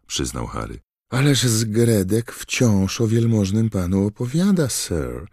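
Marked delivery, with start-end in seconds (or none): 1.1-5.3 high, louder eager squeak; a house-elf gushing about her friend; high thrilled elf voice; excited elf squeak. Acted. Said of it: "zapiszczała skrzatka".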